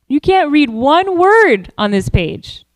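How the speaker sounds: scornful imitation of jeering locals, drawn out on key words; mock taunt, pitch swooping up on the stressed words; mocking ridicule. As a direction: ridicule him with slow, incredulous emphasis. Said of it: "would ridicule him, saying".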